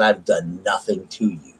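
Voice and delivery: slow, weighted retort; retold, measured indignation; emphatic protest. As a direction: spell it out slowly to someone rude. Retold quarrel with rude clerk.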